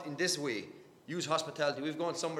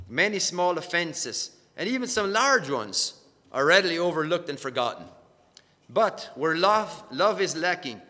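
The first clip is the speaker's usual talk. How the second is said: emphatic quote reading; 4 dB louder than usual. Acted. Reads a quote aloud.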